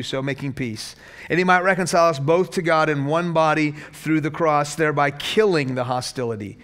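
steady, measured reading of the passage; scripture reading. Acted. Pastor reads Ephesians to the congregation, measured scripture reading.

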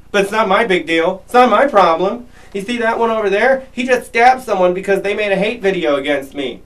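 fast, offhand sneering mimicry of the excuses; mocking impression. Vlogger mocking an idol who dodges blame, fast sneering impression. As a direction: rattle it off like a shrugging idol.

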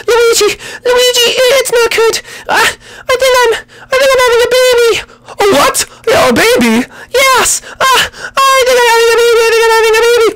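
very high wailing cry; high falsetto birth panic; screaming princess in labour. Acted. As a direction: shriek it like she's giving birth. Peach in labour, crying.

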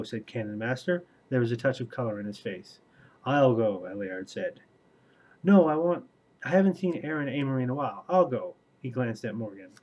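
steady, even read-aloud voice; audiobook-style reading with lightly voiced characters; story narration. A narrator's reading. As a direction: read the book passage to your viewers. Reads novel excerpt aloud.

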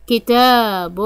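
long held aa in كتاب; كتاب with a sustained taa; elongated letter. Shown as a demonstration. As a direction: stretch the ا of كتاب out. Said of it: "حرف التاء ممدود بالألف".

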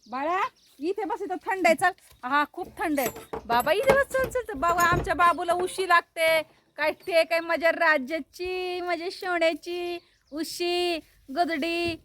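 coaxing pet talk. Real, not acted. Woman coaxing her dog to sit in the cool shade, baby talk.

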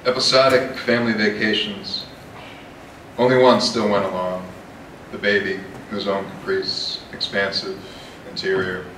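measured poetry reading, firm line openings; deliberate, projected reading of a poem; poem recitation. Acted. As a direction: recite the verse in short phrases with pauses. Reads own poem aloud.

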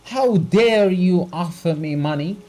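high, loud outraged shout; the doctor shouting as he's offered money. A narrator's reading. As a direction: fling the question back. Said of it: "shouted the doctor".

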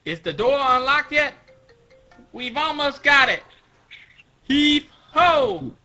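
high, loud work shouts; straining crew call. Acted. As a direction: call out while heaving at a door. Acted crew forcing a door open.

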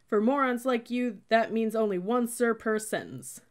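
loud, high berating; screamed scolding. A narrator's reading. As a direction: yell it at a hopeless recruit. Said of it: "he screamed".

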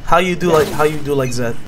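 put-on halting broken English in a thick foreign accent.

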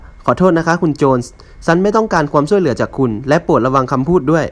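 freeze him out, word by word; coldly. Acted. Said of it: "เธอก็พูดอย่างเย็นชาว่า".

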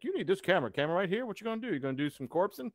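pushy, high-pitched sales pitch; hard-sell a camera like a sleazy dealer; used car salesman. Pretend. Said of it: "like, used car salesman thing?".

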